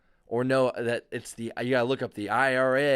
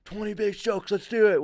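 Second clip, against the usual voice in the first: put-on higher, louder call in a German accent; 7 semitones higher, 5 dB louder than usual. German teammate calling a power ten, German accent. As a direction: bark it out like a German rower. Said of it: "in his German accent".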